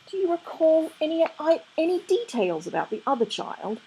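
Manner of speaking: sweetly. A narrator's reading. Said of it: "said Aziraphale sweetly".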